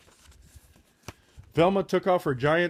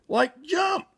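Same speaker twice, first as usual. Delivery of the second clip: excited shout; 12 semitones higher than usual. Acted. Shaggy urging the leap.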